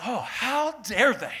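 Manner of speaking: high, loud and very drawn-out indignation; mock offended. Preacher reacting to the hate mail, mock offended. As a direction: play up being affronted, stretching the words. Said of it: "I got offended".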